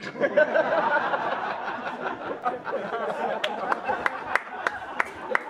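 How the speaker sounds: loud breathy burst of laughter; big laugh. Real, not acted. Comic laughing hard at his own red-hot poker joke. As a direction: crack up at your own joke.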